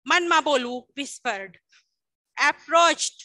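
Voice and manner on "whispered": much softer and lower, almost under the breath; softly dropped demo. Shown as a demonstration. Teacher showing students a whisper, softly. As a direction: let the word sink to a hush. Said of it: "એકદમ ધીમેથી".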